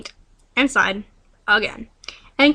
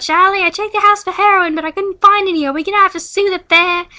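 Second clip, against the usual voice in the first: loud, higher call across; 6 semitones higher, 6 dB louder than usual. Acted. Claire calling out to Charlie, loud higher call. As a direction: call it out to him. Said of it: "Claire called out".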